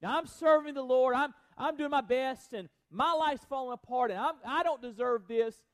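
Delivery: hammed-up self-pitying complaint. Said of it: "this idea of self-pity".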